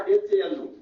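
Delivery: spelling the word letter by letter; spelled out letter by letter. Shown as a demonstration. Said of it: "यही तो मैं लिख देता".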